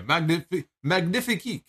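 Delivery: hammed-up French chef saying magnifique; French accent. Shown as a demonstration. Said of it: "I'm trying to do the French, uh, the French gimmick".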